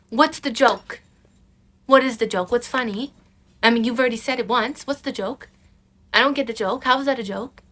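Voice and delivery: acted confrontation, punchy repeated questions; pointed, exasperated questioning; indignant challenge. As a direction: demand an explanation from a joking partner. Acts confronting a joking partner.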